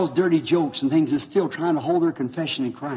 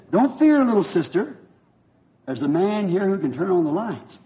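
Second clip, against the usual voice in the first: reassuring shout; 3 semitones higher than usual. Retold or imitated. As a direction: call out boldly, then ease down. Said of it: "You know what he screamed?". (grido rassicurante che si calma)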